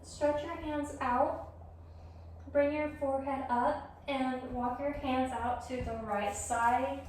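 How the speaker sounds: yoga guidance. Real, not acted. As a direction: guide them gently through the pose, leaving room to breathe. Leads yoga practice.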